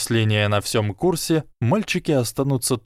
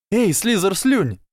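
high, drawn-out yell; shouted taunt; 10 semitones higher than usual. A narrator's reading. Ernie taunts the Slytherins, high shout. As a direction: holler the insult slowly across the field. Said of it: "закричал Эрни".

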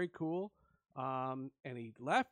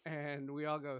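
normal talking voice

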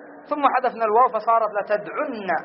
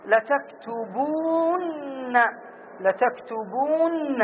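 the word لتكتبون stretched slowly; slow drawn-out demo; 3 semitones higher, much slower than usual. Shown as a demonstration. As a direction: drag out لتكتبون so students hear each sound. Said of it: "فصارت". (نطق لتكتبون ببطء وتمديد)

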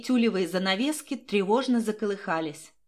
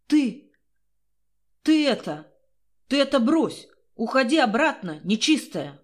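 higher and louder, panicky, warding off a ghost; frightened shout; 3 semitones higher, 4 dB louder than usual. A narrator's reading. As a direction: shout her away in fright. Man frightened by ghost lover.

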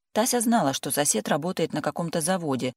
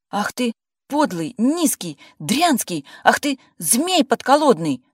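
high, loud, indignant cry; wife yelling at ex-husband on the phone; outraged shout; 8 semitones higher, 7 dB louder, slower than usual. A narrator's reading. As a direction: spit the insults at him. Furious at ex-husband.

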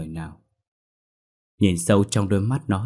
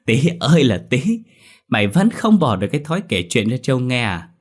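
teasing; 4 semitones higher, 4 dB louder than usual. Acted. Teasing old friend loudly.

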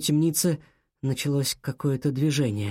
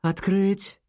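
sharp order; 4 semitones higher than usual. A narrator's reading. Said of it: "короткий и резкий приказ".

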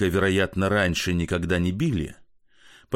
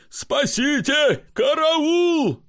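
much higher, screaming for help; terrified cry for help; 3 dB louder, much slower than usual. Acted. Drunk comic screams for help in terror. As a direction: scream as if being killed.

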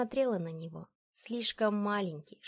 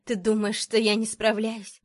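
loud, wounded challenge; trembling outburst; 3 semitones higher, 7 dB louder than usual. A narrator's reading. Wife challenging her husband's reproach, unrestrained and trembling. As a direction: fire back with a touch of tremble. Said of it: "Мой голос дрожал".

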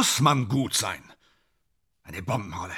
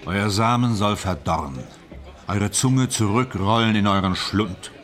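declaimed curse of a condemned man; 3 semitones lower than usual. Acted. Condemned man cursing his hangmen from the script, solemn declaiming. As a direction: pronounce a doom on them, measured and emphatic. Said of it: "Stand erst so im Drehbuch".

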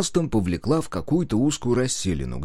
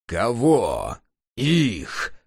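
muffled bark; much slower than usual. A narrator's reading. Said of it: "приглушённо рявкнул Пепелюга".

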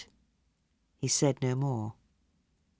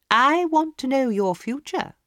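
a lightly voiced, higher, eager society lady; eager hostess; 11 semitones higher, 3 dB louder than usual. A narrator's reading. Hostess urging Lord Arthur to have his palm read, lightly voiced and eager. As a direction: coax him to take his turn.

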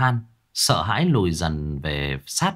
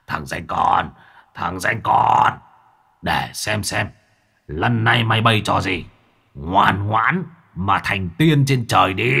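lightly voiced menacing old sorcerer; seething old villain. Old sorcerer to captured Long Tứ, seething threat. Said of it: "Lão Cửu rít lên".

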